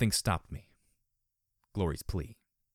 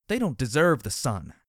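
loud, bitter shout; 3 semitones higher, 5 dB louder than usual. Acted. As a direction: shout it at them. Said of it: "Dusk shouted".

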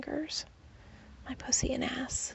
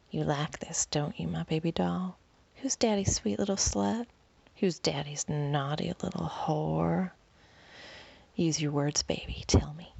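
low teasing lover; 4 semitones lower than usual. Acted.

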